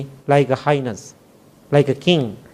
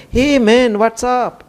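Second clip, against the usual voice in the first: lightly voiced casual Detroit greeting, a bit higher; imitating a Detroit man's greeting; 8 semitones higher, slower than usual. Tall man greeting the monk at immigration, casual and breezy. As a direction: toss it off like a cool stranger at the airport. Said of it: "that's how he talked to me".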